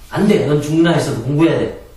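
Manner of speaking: put-on strict mother refusing her child; stern mother. Shown as a demonstration. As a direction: shut the kid down firmly.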